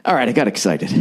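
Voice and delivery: easy, settled voice after the frantic one; relaxed admission. Retold or imitated. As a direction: imitate a friend calming down. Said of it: "he just relaxed and goes".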